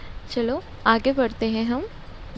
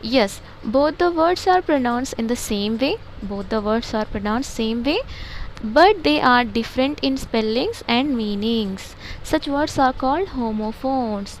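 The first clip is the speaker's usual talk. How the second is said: slow textbook reading; much slower than usual. Shown as a demonstration. Teacher reading the textbook aloud to pupils, slow and deliberate. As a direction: read each English word slowly and evenly, like dictation.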